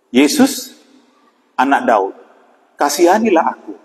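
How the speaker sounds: mildly acted plea, leaping up on Yesus; retold calling out. Beggar pleading as Jesus passes, mildly calling out. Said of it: "Dia berseru".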